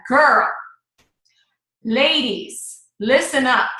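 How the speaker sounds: put-on casual call to the girls; chatty girlfriend address. Shown as a demonstration. Coach showing how to open a post, chatty girlfriend talk. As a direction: get your friends' attention, lightly sassy. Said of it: "how you would talk to somebody".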